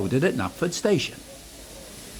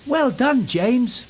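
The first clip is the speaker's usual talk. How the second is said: high, louder cheer of congratulation; excited praise; 10 semitones higher, 4 dB louder, slower than usual. A narrator's reading. Percy congratulating James, excited and high. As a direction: burst out with delight. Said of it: "puffed Percy excitedly".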